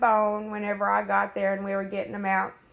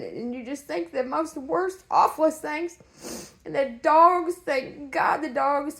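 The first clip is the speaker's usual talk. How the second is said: tearful, higher and strained; fighting back tears; emotional, near tears; 4 semitones higher than usual. Real, not acted. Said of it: "I'm so sorry I'm so emotional".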